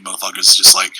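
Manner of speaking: talking through a burp; words caught on a burp. Real, not acted. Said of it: "sorry, burping like a motherfucker here".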